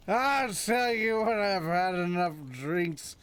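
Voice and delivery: lightly voiced surfer dude, slow and drawn out; a hint of a laid-back California surfer; surfer dude horse. Horse Roach talking back to his rider, lightly voiced laid-back surfer. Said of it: "Doesn't Roach sound like a surfer dude from Cali?".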